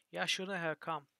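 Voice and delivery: put-on scowling trapper at the door, in a Hadati accent; Hadati accent drawl. A narrator's reading. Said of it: "drawled the man with a heavy Hadati accent".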